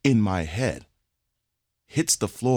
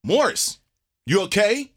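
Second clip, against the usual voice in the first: higher concerned teacher voice; 11 semitones higher than usual. Retold or imitated. Teacher asking the stoned student, higher and concerned. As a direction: lightly play the worried teacher. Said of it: "The teacher's like".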